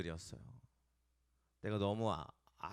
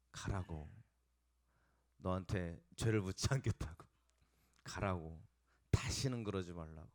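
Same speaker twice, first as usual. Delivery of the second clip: gentle store manager; 3 semitones lower than usual. Retold or imitated. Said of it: "점장님이 딱 오시더니".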